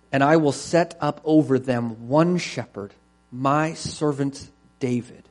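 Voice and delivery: measured, solemn reading aloud; deliberate Bible reading to a congregation; scripture reading. Acted. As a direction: read it as God's declaration, leaning on key words.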